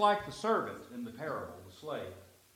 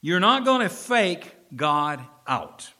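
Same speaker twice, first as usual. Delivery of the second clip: emphatic preaching; 6 semitones higher, 11 dB louder, slower than usual. Real, not acted. Preacher drives home warning.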